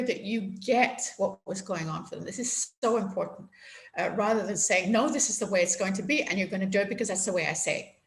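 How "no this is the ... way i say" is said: fast, lightly voiced authoritarian father; mock strict dad. Imitating her dad laying down the law, quick and mildly stern. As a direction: rattle off the old rules like a stern dad. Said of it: "This is what my dad used to say".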